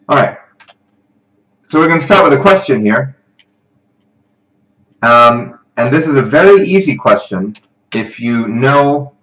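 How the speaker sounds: projected, lively teaching voice; livestream presenter. Real, not acted. Tutor lays out tonight's review for students, projected. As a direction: address the online class with energy.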